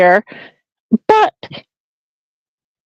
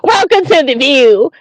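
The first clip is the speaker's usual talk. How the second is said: higher, mocking talk-show host voice; mimicking the host; 8 semitones higher than usual. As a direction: parrot the host back, mockingly.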